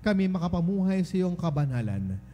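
measured liturgical prayer with lingering phrase endings; solemn prayer. Acted. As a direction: pray it formally on behalf of the congregation. Priest leads opening prayer.

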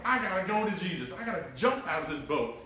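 acting out an eager disciple; excited. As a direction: quote it with a touch of urgent excitement. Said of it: "It was something exciting that he was like".

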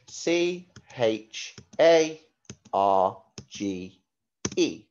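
slow, letter-by-letter spelling. Shown as a demonstration. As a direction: spell each letter clearly for the class.

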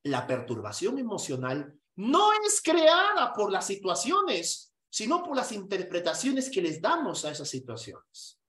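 slow, deliberate dictation; dictated quote. Shown as a demonstration. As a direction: spell it out for students to note. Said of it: "Apúntame su frase más bonita". (dictado lento y marcado)

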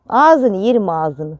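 slow, drawn-out doting coo. Real, not acted. Doting on her pet hen Karamel, slow and adoring. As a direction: savour every word, adoring.

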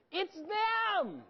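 "them" shot up high and loud; emphatic high "them"; stress on them. Real, not acted. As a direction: punch "them" as the answer.

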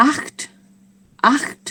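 "acht" short, throaty ch then released t; German acht demonstration. Shown as a demonstration. Teacher introduces German eight, short "acht" with crisp t. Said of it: "ออกเสียงว่า".

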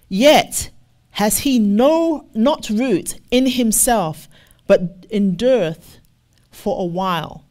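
loud, slow, weighty reading of the verse; emphatic scripture reading. Acted. Preacher proclaiming the verse to the church, loud and slow.

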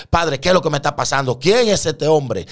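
high, loud cry to the Father; re-enacted awestruck questioning; bewildered plea. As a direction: plead for an answer, overwhelmed. Asks God who appears before him.

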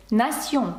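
"Nation" with an S sound for the T; French "Nation", S in the middle; T read as S. Shown as a demonstration. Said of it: "Т також може передавати звук С".

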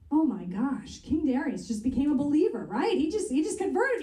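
rising in excitement, pitch climbing high; amazed. Real, not acted. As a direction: marvel at the king's sudden faith. Amazed at the king's conversion.

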